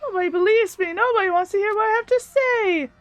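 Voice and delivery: gleeful game villain. Acted. Villain declares punishment time after the failed vote, theatrically gleeful. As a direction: build toward a showy proclamation.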